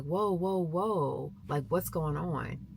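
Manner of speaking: imitating a husband's drawn-out "whoa"; calming intervention. Father walking up on coaches yelling at his daughter, calming intervention. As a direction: step in and slow everyone down.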